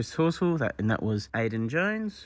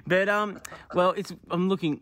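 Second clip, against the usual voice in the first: stifled giggles; 6 semitones higher than usual. Real, not acted. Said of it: "I'm trying not to laugh here".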